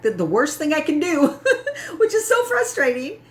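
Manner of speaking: high-pitched, giggling rant; half-laughing frustrated outburst; laughing through the words. Retold or imitated. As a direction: laugh it out while venting. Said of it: "I'm like".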